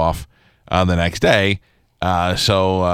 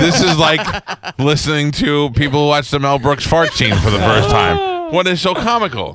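laughing; 5 semitones higher than usual. Real, not acted. Teasing, laughing through the question.

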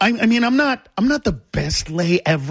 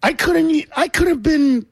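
high, half-laughing indignation; rising complaint with a laugh in it; mock outrage; 7 semitones higher than usual. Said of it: "So I said".

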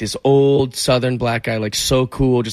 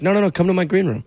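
insisting coworker; 6 semitones higher than usual. Retold or imitated. Sierra insisting.

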